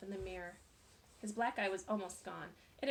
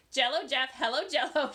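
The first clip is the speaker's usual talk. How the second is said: giggling taunt; 4 semitones higher, 10 dB louder than usual. A narrator's reading. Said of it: "She kept laughing hysterically".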